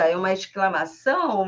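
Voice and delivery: "exclamação" stretched and falling as an exclamation; exclamation intonation. Shown as a demonstration. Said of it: "questão das entonações".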